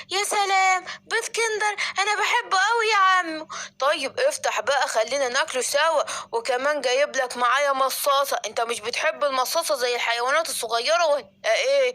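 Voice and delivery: put-on a kid who has just heard about sweets; excited child. Simba tempted by the sweets.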